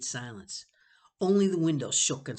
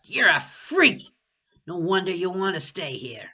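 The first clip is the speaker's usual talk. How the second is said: higher, louder insult; disgusted shout; 4 semitones higher, 8 dB louder than usual. Acted. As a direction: spit it out in disgust. Sebastian insulting loudly.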